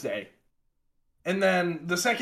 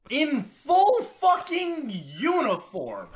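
exasperated laugh; 9 semitones higher, slower than usual. Real, not acted. Exasperated retelling of cop stop.

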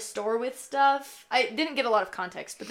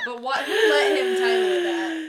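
incredulous; 8 semitones higher, 5 dB louder than usual. Real, not acted. Outraged at song title.

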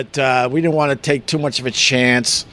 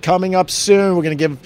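radio tease. Retold or imitated. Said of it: "teased it and said".

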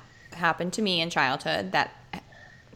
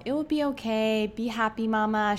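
lightly voiced child, higher pitch; child comforting mom; 4 semitones higher than usual. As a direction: cheer mama up in a little kid's lilt. Voicing her child comforting her.

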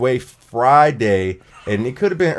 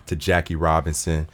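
low, soft, measured tribute; solemn condolences; 8 semitones lower, 6 dB quieter than usual. Real, not acted. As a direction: offer heartfelt sympathy, quieter and lower. Continuing tribute to the late actor.

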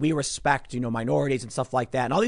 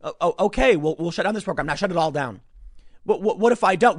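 timid official; 3 semitones higher, 4 dB louder than usual. Pretend. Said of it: "you're gonna be like".

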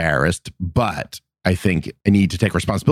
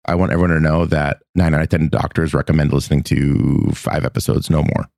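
mock medical ad voice; like an old doctor-recommended commercial; chipper 1950s ad; 4 semitones lower than usual. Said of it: "In a day?".

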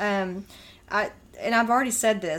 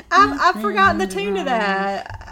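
laughing, louder; giggling through it; 9 semitones higher, 7 dB louder than usual. Real, not acted.

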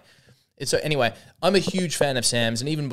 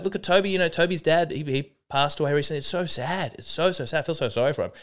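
imitating Sam; 5 semitones higher, faster than usual. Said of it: "He's like".

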